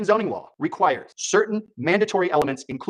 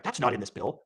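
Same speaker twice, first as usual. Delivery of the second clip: mock denial; 4 semitones lower, 8 dB quieter than usual. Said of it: "notice how they talk about it".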